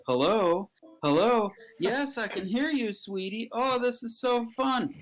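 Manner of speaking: high-pitched, delighted phone chatter; gushing phone voice. Acted. Storyteller plays a man answering the phone, gushing. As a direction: coo sweetly down the line. Acting a sweet phone greeting.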